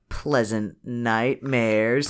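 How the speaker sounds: slow, drawn-out sinister sendoff; teacher bidding pupils goodnight, slow and eerie; slow spooky farewell. Retold or imitated. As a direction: savour it like a creepy witch. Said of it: "and I quote".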